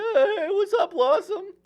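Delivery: squeaky little voice, very high pitched. Recalling an actor's pharmacy scene in Blossom's first episode, Giovanni Ribisi squeaky voice. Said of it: "he's got like a squeaky little voice".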